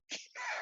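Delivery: short, quiet laugh; soft chuckle. Real, not acted. Woman laughing after retelling her answer to her husband, soft chuckle. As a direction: chuckle softly to yourself.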